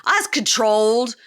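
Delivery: swagger it out; mock tough Chance. Chance at the bar, mock boastful. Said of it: "his talking head... and goes".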